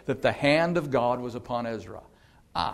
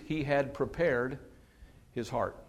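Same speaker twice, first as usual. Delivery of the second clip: He had prepared his heart, softer and slow, a pause before his heart; soft slow reverent; 7 dB quieter, slower than usual. Shown as a demonstration. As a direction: drop the voice and savour the phrase. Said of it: "This whole passage hinges on this phrase".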